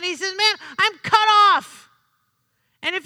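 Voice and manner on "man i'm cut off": louder, slow cry of mild alarm; emotional outburst. Acted. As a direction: blurt it out loud, drawn out with emotion. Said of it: "in a moment of, of extreme, um, haste and emotion".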